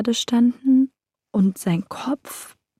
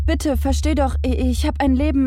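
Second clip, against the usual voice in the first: higher, desperate begging; desperate pleading; 6 semitones higher, faster than usual. Acted. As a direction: plead for mercy, almost crying out.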